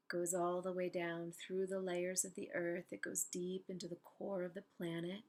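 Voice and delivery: unhurried meditation guide with long pauses; calm, spacious guided-imagery voice. Real, not acted. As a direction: guide them gently into stillness, leaving space between phrases.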